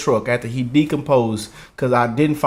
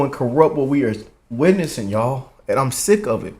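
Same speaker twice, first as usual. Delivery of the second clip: normal talking voice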